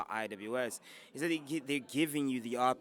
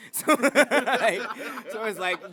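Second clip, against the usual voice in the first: ऊँची आवाज़ में हंसते हुए बोलना; हंसी रोकते हुए बात आगे बढ़ाना; laughing; 9 semitones higher, 12 dB louder, much slower than usual. Real, not acted. Laughing about school recess.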